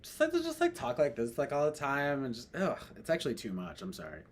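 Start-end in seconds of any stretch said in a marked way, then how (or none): 0.0-2.5 a light hint of a sassy drag queen voice. Shown as a demonstration. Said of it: "I sound like a drag queen".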